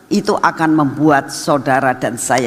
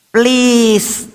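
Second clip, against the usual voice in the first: high, drawn-out begging please; wheedling plea; 6 semitones higher, 3 dB louder than usual. Retold or imitated. Grandchild begging Mama by voice message, wheedling plea. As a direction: imitate a child coaxing with one long word. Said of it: "ya, bisa merayu".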